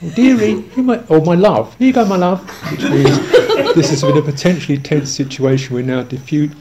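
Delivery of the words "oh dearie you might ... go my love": English dearie talk. Retold or imitated. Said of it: "if it's a bit stronger, they say".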